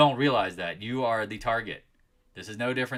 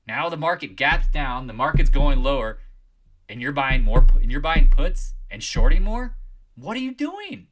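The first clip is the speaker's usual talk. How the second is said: loud, building to a high cry; exasperated shout; 3 semitones higher, 12 dB louder than usual. Real, not acted. Streamer scolding traders who short the gap down, shouting. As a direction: scold them at full volume.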